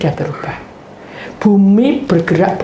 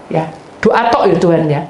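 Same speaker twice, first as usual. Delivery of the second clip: usual speaking voice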